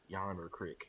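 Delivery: slow "yonder creek", with "creek" as "crick"; short i in "creek", rhyming with brick; Alabama pronunciation. Shown as a demonstration. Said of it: "you have to master saying crick".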